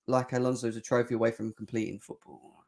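hushed, unvoiced whisper. Real, not acted. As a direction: whisper it like a bad secret. Dreaded transfer rumour aside.

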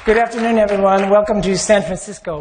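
echoing hall sound; cave echo. Real, not acted. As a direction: voice ringing in a big echoey room. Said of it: "Wow, that is really an echo".

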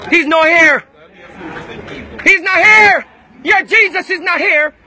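loud, sharp real shout; angry shout. Real, not acted. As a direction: hurl it back at them in real anger. Heated confrontation in a church.

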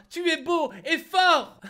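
slow, adoring put-on voice; mock flattering tone. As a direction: read it like a swooning fan. Reading a flattering donor message.

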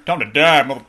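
loud battle cry; battle shout. Acted. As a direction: yell it at the enemy.

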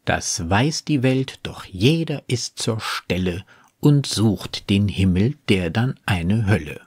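measured closing couplet; quoted poetry with careful phrasing; poem recitation. Acted. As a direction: recite the verse deliberately, falling to a close.

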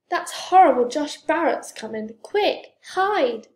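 loud, high-pitched warning; yelling in alarm; urgent yell. A narrator's reading. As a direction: shout a panicked warning. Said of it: "yelled Franklin".

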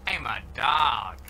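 slow, loud dog declaration; talking dog voice. Acted. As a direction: announce it like a proud dog. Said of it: "It starts talking to you".

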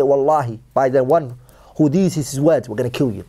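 low, menacing voiced threat, a touch hammed; mock threat. Acted oath threatening to kill.

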